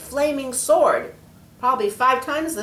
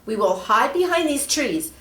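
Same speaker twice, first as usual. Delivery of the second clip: urgent angel; 7 semitones higher, 6 dB louder than usual. Acted. Angel instructs.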